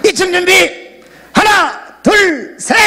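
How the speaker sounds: rally them with a shouted countdown; shouted count-in. Real, not acted. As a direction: holler the cue up high.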